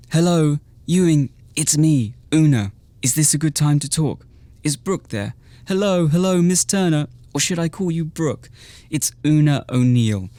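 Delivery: high, loud gushing greeting; bubbly Valley Girl. Acted. Una gushing hello to Ewing on speakerphone, high and loud. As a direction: gush at Ewing like an eager party girl. Narrator reads Una's bubbly lines.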